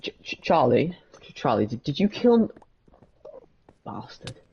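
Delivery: lightly hyper character voice, stammering; Monroe. Shown as a demonstration. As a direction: play a flustered, hyper doctor. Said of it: "higher pitched, more hyper version".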